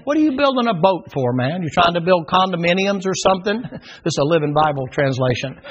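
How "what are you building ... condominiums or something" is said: mocking taunt. Mocking crowd voiced.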